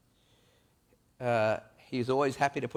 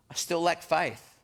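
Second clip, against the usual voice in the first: slow, halting admission; slow confession; 6 semitones higher, slower than usual. Acted. Thomas admitting to Jesus that he still lacks faith, slow and halting. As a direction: confess it slowly.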